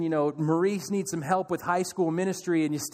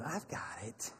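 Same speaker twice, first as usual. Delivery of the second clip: low, near-silent reassurance; calm Jesus; 7 semitones lower, 17 dB quieter, slower than usual. Retold or imitated. Jesus answering the tearful parent, hushed and calm. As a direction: hush it, steady and sure.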